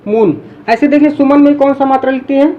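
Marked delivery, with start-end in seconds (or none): 0.1-0.4 मून with a long drawn-out oo; long vowel. Shown as a demonstration. Teacher showing the long oo sound in मून. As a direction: stretch the oo in मून. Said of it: "उसको हम बोलते हैं long sound".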